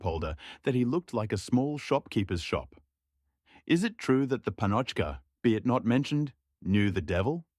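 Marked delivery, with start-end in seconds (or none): 3.7-7.5 put-on a young shepherd, raised and eager. Young shepherd asks the supper circle, eagerly raised. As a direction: eagerly ask the gossip about the witch.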